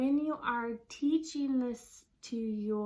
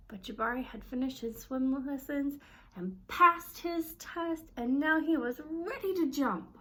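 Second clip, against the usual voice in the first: higher, livelier storybook reading with feeling; expressive read-aloud; 4 semitones higher than usual. Shown as a demonstration. Parent reading to a child, adding emotion to each word. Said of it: "show that in our voice".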